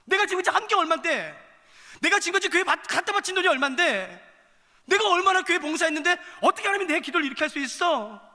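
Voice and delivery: high, loud protest at God; indignant complaint. Acted. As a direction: cry out an aggrieved believer's complaint, loud and high. Acting out a believer's complaint to God.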